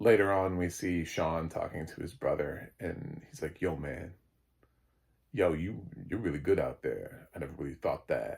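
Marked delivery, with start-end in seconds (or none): 3.6-8.4 very low, deep character voice from the chest. Recapping a scene where Sean talks to his brother, low Sean voice. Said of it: "I'm trying to do my Sean voice because it's like really low".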